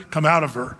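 just speak it, cool and collected; calm, cool, collected. Retold or imitated. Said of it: "speak calmly, cool, collected".

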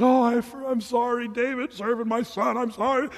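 hammed-up sobbing sorry; mock weeping apology. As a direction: imitate a tearful king begging pardon. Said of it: "And he wept".

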